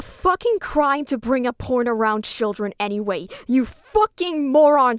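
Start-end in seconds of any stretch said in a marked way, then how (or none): 3.5-5.0 louder, spat-out insult; angry insult. Real, not acted. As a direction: hurl it at her in disgust. Insulting Susie in anger.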